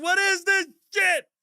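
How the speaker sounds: retold outburst at teammates in the locker room, shouting; outraged shout. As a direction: blow up at the music. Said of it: "I said".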